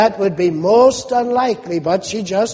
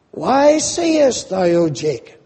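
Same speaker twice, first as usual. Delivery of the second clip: offended God. Acted. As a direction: draw out the question as if insulted. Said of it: "as though God is offended and God is insulted".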